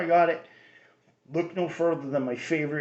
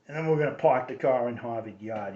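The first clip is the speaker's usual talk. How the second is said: Kennedy accent. Shown as a demonstration. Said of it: "which is the Kennedy accent".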